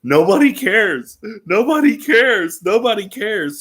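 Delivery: lightly voiced patient in crisis repeating herself; woman in breakdown. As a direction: mutter it over and over like someone falling apart. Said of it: "keeps repeating to herself over and over".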